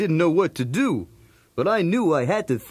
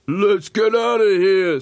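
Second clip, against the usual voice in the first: scared scream; 4 dB louder than usual. Acted. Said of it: "screamed Tubbs".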